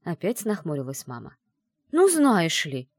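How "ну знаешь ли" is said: loud indignant protest; a raised, offended retort. Acted. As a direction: bristle and say it louder, offended. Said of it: "возмутилась я".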